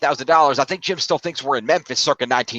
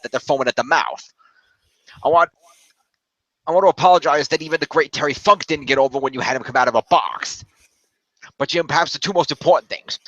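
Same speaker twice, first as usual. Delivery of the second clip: lightly put-on New York accent; mock-earnest apology in a New York accent; Vince Russo. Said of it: "That's effectively the Vince Russo accent".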